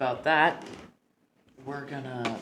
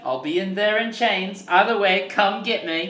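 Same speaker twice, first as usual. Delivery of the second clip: high, loud playful cub; chirpy cub calling out; lion cub voice; 10 semitones higher, 7 dB louder than usual. Acted. NPC voiced by GM.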